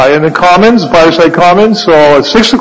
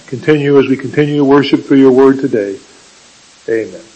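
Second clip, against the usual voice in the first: prayer voice; 2 semitones lower than usual. Acted. Pastor leads opening prayer.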